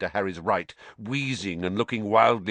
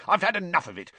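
higher, fed-up grumble to oneself; furious muttering; 10 semitones higher, much faster than usual. A narrator's reading. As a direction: grumble it crossly, pitch raised. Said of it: "he muttered furiously".

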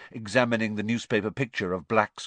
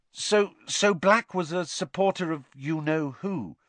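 put-on a higher, tentative boy's question; apologetic prompt; 8 semitones higher, 3 dB louder than usual. A narrator's reading. Harry prompts Stan apologetically, a little higher. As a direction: ask gently, a bit sorry. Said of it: "Harry prompted apologetically".

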